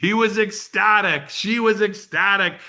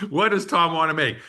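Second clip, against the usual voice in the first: laughing. Real, not acted.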